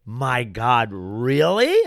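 imitating a stunned reaction, pauses between words; mock disbelief, rising loud on the last word; retold shock.

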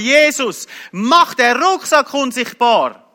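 high, slow plea to God; acted begging, pitched well up; retold desperate cry. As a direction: cry out a drawn-out, urgent prayer. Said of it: "einfach zu Gott geschrien".

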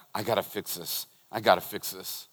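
quiet anxious thought; soft inner panic; inner worry. Retold or imitated. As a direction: mutter it to yourself, worried. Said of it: "I'm just like".

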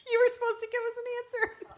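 mock-indignant, high and fast, through laughter; joking complaint. Woman jokingly telling God off for not answering, mock-indignant. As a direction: playfully scold with a laugh. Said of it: "I'm just kidding".

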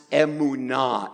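"emunah" as eh-moo-NAH, syllable by syllable; pronunciation of emunah. Shown as a demonstration. Preacher teaching the congregation a Hebrew word, "emunah" sounded out as eh-moo-NAH. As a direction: say "emunah" carefully, ending on an open "nah". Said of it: "This word is pronounced".

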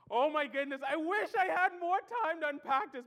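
can barely contain the thrill; excited outburst. Real, not acted. Preacher to congregation, gushing with excitement. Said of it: "let me calm down".

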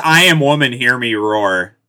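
mock declaration. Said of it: "this is just".

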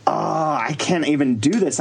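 drawn-out mock-helpless groan; flustered. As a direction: moan it slowly, giving up. Retelling flustered stage introductions.

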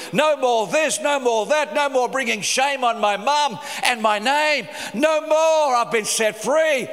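rising, emphatic declaration, punching each "no"; passionate declaration. Retold or imitated. New believer declaring his freedom, rising and emphatic. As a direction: declare it like a man breaking free. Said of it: "I used to stand up and go".

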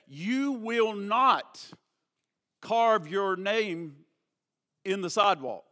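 slow, spaced-out fatherly command; measured, deliberate parental order; stern warning. Retold or imitated. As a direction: lay down the law, pausing between phrases. Father sternly warns his children.

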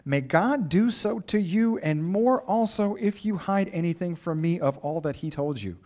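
slow, careful reading of a twisty verse; read slowly. Shown as a demonstration. Preacher reading a tangled verse to the congregation, slowly. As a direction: take it word by word, slowly. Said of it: "I have to read this slowly 'cause it's super twisty".

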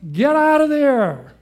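preaching climax, loud and drawn out; urgent command. Acted. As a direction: drive it home: get out now. Preacher urging flight from temptation.

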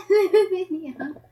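loud, slow "aluminium" with every syllable drawn out; mock British pronunciation. Shown as a demonstration. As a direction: relish the long "aluminium", ending -ee-um. Playfully repeating the British word.

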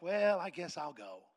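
slow, grudging imitation of giving in; mock reluctance. Wife agrees to the trip at the last minute, unexcited. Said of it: "you're not even excited".

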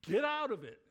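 loud urgent warning to get out; urgent mock-alarm shout to sister. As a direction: yell it at your sister down the phone. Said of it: "I'm like".

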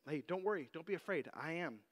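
lightly thrown-out, offhand reassurance; casual reassurance. Retold or imitated. Jesus reassuring the frightened disciples, casually. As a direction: toss it out casually, as if no big deal. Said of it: "just sort of casually just throwing out".

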